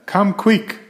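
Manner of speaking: high, urgent call; shouting. Acted. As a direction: call your brother over urgently. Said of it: "I shouted".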